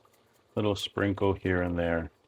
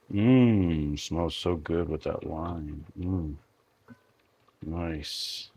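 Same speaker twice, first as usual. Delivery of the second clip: savoring a smell; 3 semitones lower, 4 dB quieter, much slower than usual. Real, not acted. Savoring the wine sauce aroma.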